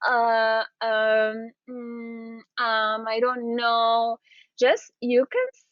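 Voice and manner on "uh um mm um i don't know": hesitant um. Shown as a demonstration. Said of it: "I don't want you during your thinking time to go like".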